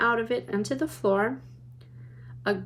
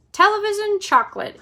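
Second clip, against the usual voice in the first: much higher, lifted reading; reading label brightly; 10 semitones higher, 6 dB louder than usual. A narrator's reading. Narrator reading the button label, excited. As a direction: read the label with wonder. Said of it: "it said on the tiny label".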